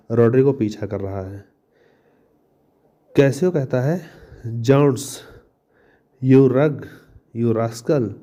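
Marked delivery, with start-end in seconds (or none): 4.6-8.1 mild mock-angry scolding. Cassio scolds Roderigo, mildly mock-angry. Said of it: "डांटने लगता है".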